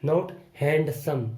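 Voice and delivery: handsome said without the d, slowly; silent d. Shown as a demonstration. Teacher showing the silent d, slow and careful. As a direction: drop the d in "handsome", say it "hansum". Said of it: "डी को नहीं बोलना है".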